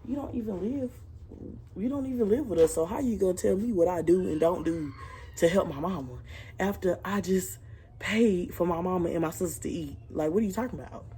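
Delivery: retold argument with a relative, indignant; retold angry retort. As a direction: tell off the relative who doesn't live with you. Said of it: "And I'm like".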